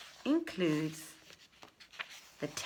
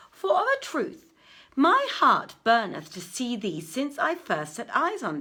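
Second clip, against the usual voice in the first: a prince's raised, eager pleading voice; earnest prince; 4 semitones higher, 4 dB louder than usual. Acted. Prince urging the weeping merchant to confide, raised and eager. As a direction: press the youth kindly but urgently, a little higher and louder.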